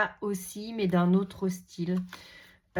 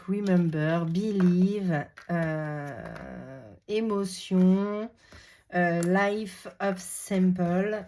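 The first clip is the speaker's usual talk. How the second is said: English words with a French accent; much slower than usual. Real, not acted. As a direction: read out English titles in a French accent, drawn out. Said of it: "désolé pour mon accent". (accent français en anglais)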